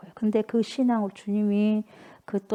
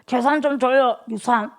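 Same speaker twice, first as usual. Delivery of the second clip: louder, insistent son's demand; pushy demand; 4 semitones higher, 5 dB louder than usual. Retold or imitated. Younger son pressing his father for money, loud and pushy. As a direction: press him for the money now. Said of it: "막 그러는 거예요".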